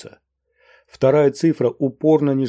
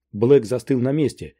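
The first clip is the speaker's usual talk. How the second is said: ordinary delivery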